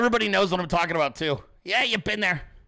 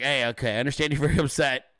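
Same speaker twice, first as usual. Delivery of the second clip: low, easygoing reassurance; relaxed, lower-pitched acknowledgement; chill; 4 semitones lower, faster than usual. Retold or imitated. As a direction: soothe an upset partner calmly. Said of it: "I couldn't be more chill".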